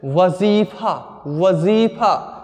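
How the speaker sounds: वजीफा slowly, stretching the middle syllable; pronunciation example. Shown as a demonstration. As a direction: sound out वजीफा for a class, with a long ज़ी. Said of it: "उसमें ज के आगे बिंदु लगता है". (वजीफा का धीमा, स्पष्ट उच्चारण)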